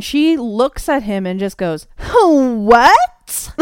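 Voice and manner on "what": loud, high, drawn-out mock What?; mocking flat What. Mocking Janelle's line to Benoit Blanc, loud and high. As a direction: ham up her baffled line, higher and louder. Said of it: "says it like that".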